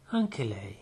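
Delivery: quiet, slow, even reply; calm. A narrator's reading. Poirot risponde al dottore, calmo e pacato. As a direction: answer evenly, unhurried. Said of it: "rispose con calma".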